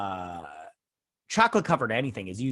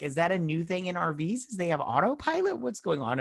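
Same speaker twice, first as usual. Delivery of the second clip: baffled questioning; 5 semitones higher than usual. Retold or imitated. Repeats baffled reaction to autopilot.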